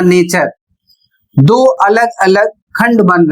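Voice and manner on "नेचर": नेचर said as a separate syllable after सिग; syllable demo. Shown as a demonstration. Teacher splitting signature into parts, नेचर said separately. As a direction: give नेचर as the second part. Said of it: "इसका उच्चारण हो जाएगा".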